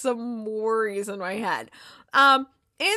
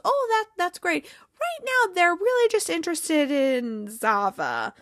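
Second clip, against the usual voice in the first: high, falling pitch as the pitch lands; upbeat coaxing; 5 semitones higher than usual. Retold or imitated. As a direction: lightly act an over-bright publicist. Voicing publicist steering eager players.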